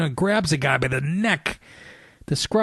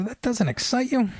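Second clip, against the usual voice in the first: higher, disbelieving retelling; retelling what he asked his wife, higher and disbelieving; incredulous retold outburst; 8 semitones higher than usual. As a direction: ask it in wounded disbelief. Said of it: "I go".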